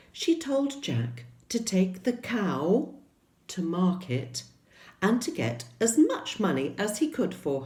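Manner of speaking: lively storybook narration; reading to children. Acted. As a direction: tell it to a room of small children.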